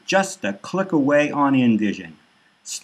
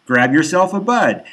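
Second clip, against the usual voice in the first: glad buddy greeting; 6 semitones higher than usual. Acted. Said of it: "Flamer's always glad to see me, saying".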